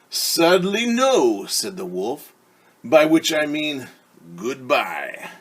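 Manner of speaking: a lightly voiced wolf, slow and smooth; smooth-talk the girl while hiding hunger; sly wolf. Wolf sweet-talking Little Red on the path, slyly.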